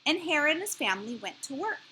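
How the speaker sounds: measured picture-book reading with pauses; expressive storybook narrator; story narration. A narrator's reading. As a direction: read to young children, phrase by phrase. Reads a picture book aloud.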